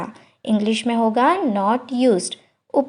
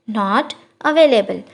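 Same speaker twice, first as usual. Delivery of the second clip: slow, careful model phrase; slow teacher demo of the English; 3 semitones lower, much slower than usual. Shown as a demonstration. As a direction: spell it out slowly for learners. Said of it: "slow model phrase".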